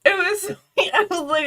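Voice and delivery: giggling through the words; words bubbling with laughter; laughing. Real, not acted. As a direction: laugh as you say it. Laughing while recounting.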